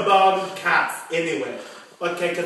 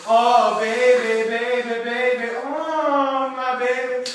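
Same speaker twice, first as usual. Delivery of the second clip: mock whining; 2 semitones higher, 4 dB louder, slower than usual. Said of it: "You just say".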